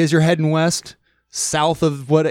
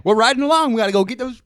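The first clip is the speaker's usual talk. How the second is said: higher, hammed-up British cowboy; mock British accent; 10 semitones higher, faster than usual. Joking that the cowboy sounds British, mock British accent. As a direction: play a cowboy gone jolly British. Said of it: "all Britishized".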